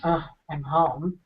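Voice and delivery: slow, sighing letdown; drawn-out groan of disappointment; mock deflated. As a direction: act out a weary, reluctant arrival. Acting a dejected homecoming.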